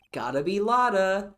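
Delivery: an excited shout; loud exclamation. Shown as a demonstration. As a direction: belt the name out with excitement. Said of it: "That's gotta be Lotta".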